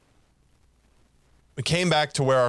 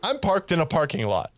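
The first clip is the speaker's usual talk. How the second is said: a higher, deadpan retort; mock matter-of-fact; 4 semitones higher than usual. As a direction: state the obvious with a smirk. Retold retort to the guard.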